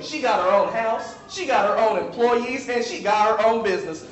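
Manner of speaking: "she got her own" repeated in a building pattern; sassy sermon cadence; colloquial rhythm. Shown as a demonstration. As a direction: punch "got" and "own" in each line. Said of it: "if I continue to speak colloquially".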